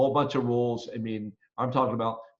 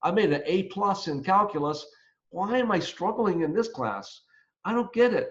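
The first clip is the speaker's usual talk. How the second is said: higher-pitched imitation of a confused student; puzzled student; 5 semitones higher than usual. Student good at math struggling in accounting class, puzzled. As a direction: lightly voice a student baffled by a bad grade. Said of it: "a lot of students who say".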